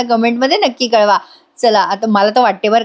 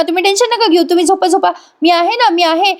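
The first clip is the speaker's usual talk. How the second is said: higher, lightly voiced soothing Raja; reassuring Raja; 8 semitones higher than usual. Raja soothes Avni during the leaking rain, lightly voiced. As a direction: coax her back to sleep, a touch put-on.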